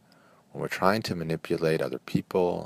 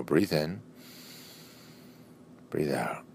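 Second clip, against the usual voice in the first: calm breathing cue, long silences between; guided breathing; 7 dB quieter, slower than usual. Real, not acted. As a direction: lift on "in", settle down on "out", leaving room to breathe. Leading a guided breathing exercise.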